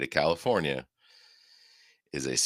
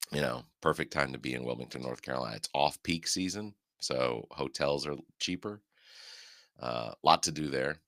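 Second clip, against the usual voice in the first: heavy nose breathing. Real, not acted. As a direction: breathe heavily through the nose. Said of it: "quit breathing into the microphone".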